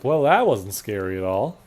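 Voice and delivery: mock sarcastic, rising end; sarcastic imitation. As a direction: echo it with a sarcastic lilt. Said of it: "it's almost sarcastic".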